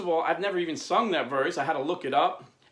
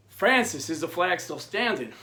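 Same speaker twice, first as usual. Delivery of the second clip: yelling up; 3 semitones higher, 4 dB louder than usual. Retold or imitated. Prisoners calling up to Francis, yelling. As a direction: call up urgently, hitting the name hardest. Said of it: "the prisoners start yelling up".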